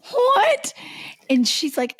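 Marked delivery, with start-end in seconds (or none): 0.1-0.7 shocked what. Retold or imitated. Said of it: "And I was like".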